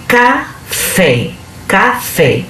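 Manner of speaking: "café" split in two, weight on the final "fé"; teacher sounding out "café" with a stressed last syllable. Shown as a demonstration. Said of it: "Fé é a sílaba tônica".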